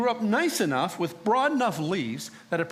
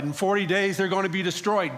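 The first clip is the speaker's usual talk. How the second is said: 1 proclaiming prophecy; 3 semitones higher than usual. Retold or imitated. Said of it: "This is what I prophesied".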